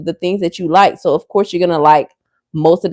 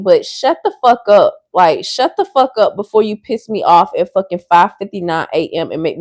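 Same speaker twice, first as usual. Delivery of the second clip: angry rant; 3 dB louder than usual. Real, not acted. Ranting at commenters.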